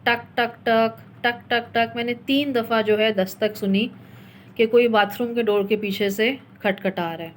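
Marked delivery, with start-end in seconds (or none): 0.0-1.7 imitated knocking. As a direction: tap out the knocks with your voice. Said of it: "اس طرح". (دروازے پر دستک کی نقل، ٹک ٹک)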